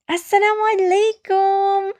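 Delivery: very high little ant calling; crying out. A narrator's reading. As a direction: pipe up high over the crowd. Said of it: "the ant cried over the overlap".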